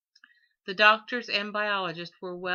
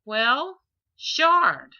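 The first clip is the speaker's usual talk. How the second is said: reluctant; 5 semitones higher, 10 dB louder than usual. A narrator's reading. Father reluctantly says the word.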